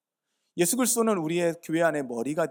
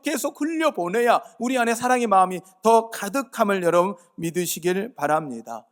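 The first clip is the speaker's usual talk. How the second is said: loud, higher, pressing exhortation; fervent preaching; 7 semitones higher, 10 dB louder than usual. Acted. Preacher urging the congregation not to blame, loud and fervent. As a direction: urge the congregation hard from the pulpit.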